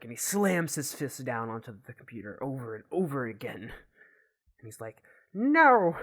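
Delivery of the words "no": loud, high, drawn-out angry yell; frustrated, angry outburst. Acted. Gavin slams his fist on the computer, angry yell. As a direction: explode in a big frustrated "no". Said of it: "gets frustrated and angered".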